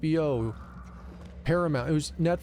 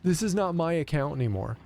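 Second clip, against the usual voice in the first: retold disgust; 4 semitones higher than usual. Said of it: "utter disgust at".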